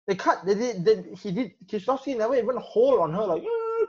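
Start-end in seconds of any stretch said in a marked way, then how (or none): 3.4-3.9 a quick high imitated sob; a mild mock sob, just a sound; mock crying. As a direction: mimic a brief sob sound.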